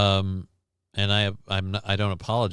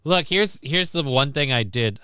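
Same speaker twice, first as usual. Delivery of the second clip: stutter; 3 semitones higher than usual. Real, not acted. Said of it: "I'm stuttering now".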